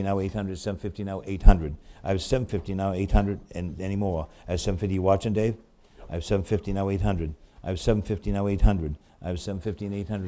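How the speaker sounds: rapid rhythmic run of bid numbers; auctioneer bid calling. Acted. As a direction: keep the bids rolling like an auctioneer.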